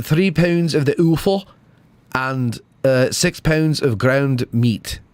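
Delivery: Scottish accent on the butcher's order. Shown as a demonstration. Retrying the line in Scottish.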